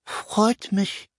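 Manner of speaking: high, thin creature voice; high little creature voice. A narrator's reading. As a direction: squeak it up high. Story figure greets newcomer.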